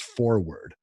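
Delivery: "forward" with the R sounded in FOR; R fully pronounced. Shown as a demonstration. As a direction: say "forward" as FOR-ward. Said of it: "I didn't know that it was".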